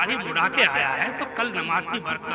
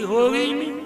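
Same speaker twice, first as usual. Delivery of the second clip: mocking strict maulana; 3 semitones higher than usual. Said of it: "कर्रे कर्रे मसले बताते".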